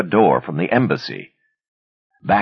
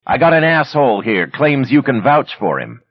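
high, loud scornful yell; loud contempt; 9 semitones higher, 5 dB louder than usual. A narrator's reading. Yelling over incinerator.

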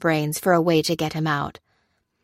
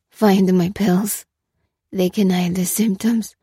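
slow, slurred, effortful plea; struggling over each word; 2 semitones higher, 4 dB louder than usual. A narrator's reading. Swaying prisoner begs Lucy for medicine, struggling to speak. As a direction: labour to get every word out. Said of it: "swaying and struggling over each word".

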